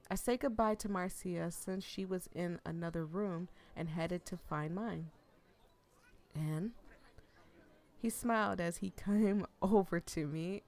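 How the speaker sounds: lively read-aloud of a novel; story narration. A narrator's reading. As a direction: read the story to your viewers.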